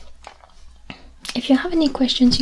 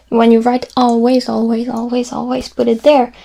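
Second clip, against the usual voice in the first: always, always repeated with force; emphatic rule. Real, not acted. Teacher stresses the writing rule to students. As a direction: insist on the written rule. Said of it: "insisting on written rule".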